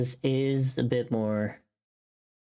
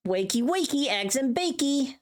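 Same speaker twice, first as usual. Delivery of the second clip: high playful wake-up chant; bouncy cutesy rhyme; cutesy sing-song; 12 semitones higher than usual. Shown as a demonstration. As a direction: sing it to a sleepy kid. Trying a cute wake-up line.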